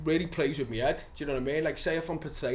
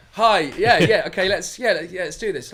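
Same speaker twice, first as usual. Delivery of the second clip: higher, nervous posh voice; flustered, fake posh accent, a bit louder; put-on posh accent; 3 semitones higher, 7 dB louder than usual. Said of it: "talking like I was posh".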